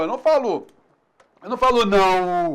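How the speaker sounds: falo ending in an U sound, falu. Shown as a demonstration. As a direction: say falo with the final O as U. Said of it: "O som é U".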